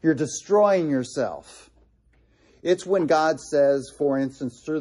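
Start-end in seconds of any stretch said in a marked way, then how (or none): 0.0-1.6 slap them awake with words; sarcastic wake-up call. Retold or imitated. God rebuking his people, sharp sarcastic jolt. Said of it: "slapping them in the face saying".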